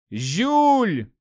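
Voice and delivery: high, loud cry of a name; alarmed cry. A narrator's reading. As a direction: call out in horror to a friend. Narrator cries out as friend stabbed.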